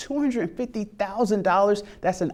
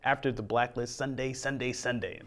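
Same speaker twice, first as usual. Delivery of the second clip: monster truck announcer; 7 dB quieter than usual. Pretend. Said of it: "It's my inner monster truck announcer voice there".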